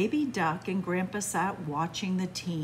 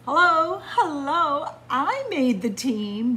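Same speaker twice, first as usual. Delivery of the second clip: excited duck; 5 semitones higher, 7 dB louder than usual. Acted. Duck cheers about making team.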